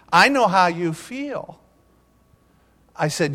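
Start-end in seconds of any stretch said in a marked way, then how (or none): 0.1-1.6 lightly voiced kid, slow and drawn out; slightly higher, slow imitation of a camper; ten-year-old camper. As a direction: stretch the words like an earnest boy. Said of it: "now this is how he talked".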